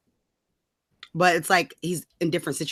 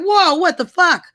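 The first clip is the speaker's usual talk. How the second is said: outraged mock white women; 9 semitones higher, 6 dB louder than usual. Mocking suffragettes outraged at black men voting, high and loud. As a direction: squeal it in scandalized disbelief. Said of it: "white women were like".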